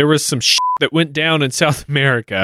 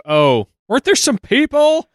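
Raleigh voice; 9 semitones higher than usual. Retold or imitated. Raleigh voiced, wondering about colonists.

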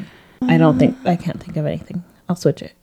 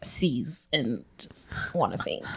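whisper; 6 semitones lower, 8 dB quieter, slower than usual. Pretend. Pretend fainting, whispered.

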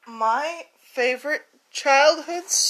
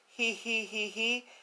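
giggle; 12 dB quieter than usual. Acted. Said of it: "He began to giggle".

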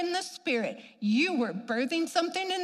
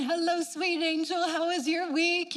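sweet church lady; 4 semitones higher than usual. Retold or imitated.

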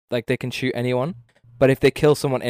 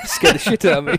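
startled laugh; 5 semitones higher, 4 dB louder than usual. Real, not acted. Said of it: "Fucking hell, you came in there".

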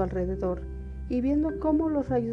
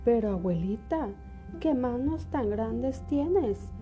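put-on little girl voice; 3 semitones higher, slower than usual. Caperucita pregunta, asombrada.

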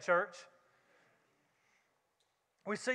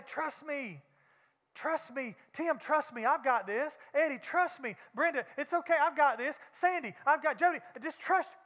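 coaxing flesh; 2 semitones higher than usual. Acted. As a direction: soothe them into trusting you. Flesh coaxing named churchgoers.

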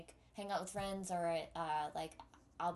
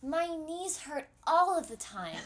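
put-on old Jewish grandma voice, louder and higher; yiddish accent; 6 semitones higher, 7 dB louder than usual. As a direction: kvetch like an old bubbe. Joking about being old.

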